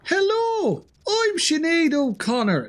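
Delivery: high, slow falsetto lady voice; mock female singer. Streamer jokingly introduces himself in a high, slow falsetto. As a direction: pipe up as a pretend woman. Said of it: "I'm not, obviously".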